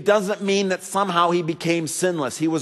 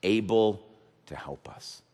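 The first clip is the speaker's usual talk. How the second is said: much softer and lower, gentle and close; quiet tender sermon; 13 semitones lower, 12 dB quieter than usual. Acted. Pastor voices Jesus comforting the fearful, soft and low. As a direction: lean in and console a frightened listener.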